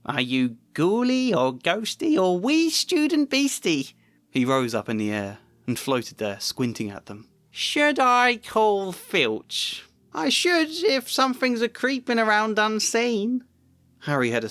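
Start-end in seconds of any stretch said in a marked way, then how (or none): 0.1-3.9 high, slow, teasing poltergeist voice; sly poltergeist. A narrator's reading. Peeves taunting hidden students. 7.5-13.4 very high, drawn-out sing-song threat; sly poltergeist. A narrator's reading. Peeves threatening to call Filch.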